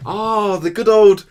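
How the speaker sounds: loud, high outburst easing down; mock cheer. Real, not acted. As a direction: exclaim it loudly, high then settling. Sarcastic outcry at opponent's combo.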